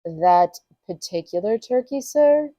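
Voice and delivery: guarded query rising on sir; noncommittal. Acted. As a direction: echo it back without committing, ending in a question. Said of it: "The manager was noncommittal".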